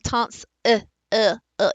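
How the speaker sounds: "tons", then the lazy vowel "uh" alone, repeated; short, separate "uh" sounds after "tons"; isolated schwa. Shown as a demonstration. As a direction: split off and repeat the "uh" of tonsil. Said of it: "You almost hear the I".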